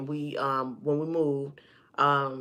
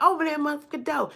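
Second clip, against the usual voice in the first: higher, faster mock yell at the door; an angry mama impression, pitched up and rushed; retold furious mom; 10 semitones higher, faster than usual. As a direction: play the enraged mother demanding entry. Mama pounding bathroom door.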